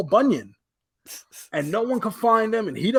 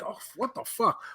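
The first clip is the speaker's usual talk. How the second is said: breathy whisper of disbelief, softer; 2 semitones higher, 8 dB quieter than usual. Retold or imitated. Retelling his reaction to the doc, whispered disbelief. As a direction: hush it out like you can't believe it. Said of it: "'Cause now I'm like".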